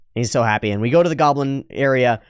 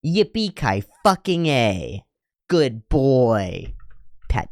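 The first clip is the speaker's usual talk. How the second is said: slow sarcastic cheer, a bit higher; much slower than usual. Pretend. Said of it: "You've reached level five".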